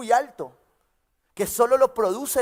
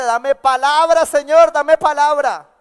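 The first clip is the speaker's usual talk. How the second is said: urgent plea; 5 semitones higher, 10 dB louder, slower than usual. Acted. Single man prays when bride comes.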